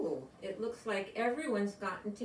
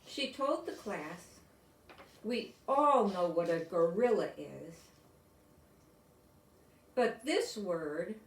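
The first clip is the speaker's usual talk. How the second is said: storybook reading. A narrator's reading. Reads picture book to class.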